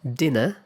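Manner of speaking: British "Dinner", no R, ends in schwa. Shown as a demonstration. Teacher demonstrating British "Dinner" with a schwa ending. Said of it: "I said the British pronunciation first".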